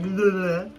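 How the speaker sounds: mock slobbering noise; playful tongue-out "bleh", imitating an eager pet; imitated slobbery bleh.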